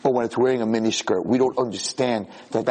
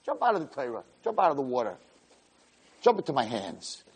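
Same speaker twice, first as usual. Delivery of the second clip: coaxing Satan; 3 semitones higher, 6 dB quieter than usual. Acted. Satan coaxing softly after shouting.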